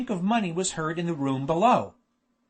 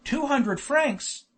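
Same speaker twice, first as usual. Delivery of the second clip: high, slow, drawn-out whine; whined; 7 semitones higher, much slower than usual. A narrator's reading. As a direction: wail it in complaint, stretching each word. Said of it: "whined Hakkabut".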